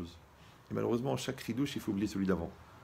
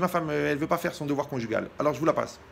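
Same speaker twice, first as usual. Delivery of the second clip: caller voice; 4 semitones higher, 5 dB louder than usual. Retold or imitated. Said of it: "Il me dit".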